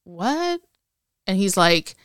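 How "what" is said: shocked. Retold or imitated. Seeing the tower on fire.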